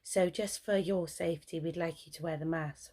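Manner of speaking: a hint of an apologetic nurse; sheepish nurse. Nurse to patient, mildly imitated as sheepish and apologetic. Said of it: "she's all sheepish".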